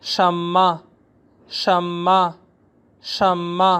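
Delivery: शम्मा repeated clearly; teacher drilling; Chinese word drill. Shown as a demonstration. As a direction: model शम्मा for learners. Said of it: "Chinese ज़ुबान में what को कहते हैं".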